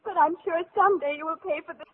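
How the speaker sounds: wicked stepmother. Acted. Stepmother threatens departing guest.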